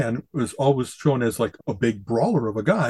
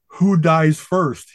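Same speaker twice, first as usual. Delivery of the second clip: slow, lightly acted fighter's challenge; brawler's defiant challenge; 3 semitones higher, 3 dB louder, much slower than usual. Outnumbered brawler taunting ten men, slow and lightly dramatised. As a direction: draw it out like a mock hero's dare. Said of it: "he said through f-, smashed and bloodied lips".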